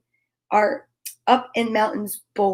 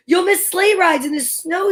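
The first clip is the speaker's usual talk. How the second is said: higher, pleading little mouse voice; small mouse; 7 semitones higher than usual. A narrator's reading. Mouse coaxing Bear to stay awake, high and pleading.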